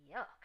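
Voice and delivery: disgusted yuck. A narrator's reading. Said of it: "she cried".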